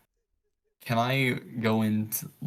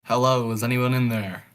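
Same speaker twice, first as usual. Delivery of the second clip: shouting into a hole; 5 dB louder than usual. Acted. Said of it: "Can I shout into the hole?".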